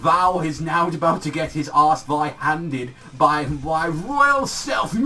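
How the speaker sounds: slow, hammed-up royal talk breaking into a laughing shout; mock royal speech. Mocking the villain's olde English, slow and pompous. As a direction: puff it up like a pompous king, then crack up. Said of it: "Just speak normal".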